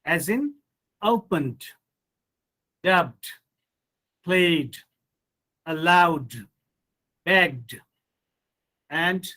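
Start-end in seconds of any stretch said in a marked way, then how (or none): 1.0-7.8 "opened", "played", "begged" each ending in d; voiced d endings. Shown as a demonstration. Teacher modelling the rule for students, "dubbed" with d ending. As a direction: list each word separately, closing "allowed" on a voiced d. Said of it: "becomes the after voiced sound".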